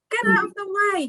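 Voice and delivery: a sheep yelling from his jeep to clear the road. A narrator's reading. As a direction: bellow it out at the duck. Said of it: "he yells with a beep".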